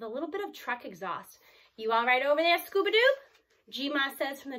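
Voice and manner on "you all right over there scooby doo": lightly voiced chirpy grandma, rising high at the end; a hint of a doting grandmother calling over; grandma checking on her grandson from the driver's seat. A narrator's reading. Grandma voiced in read story.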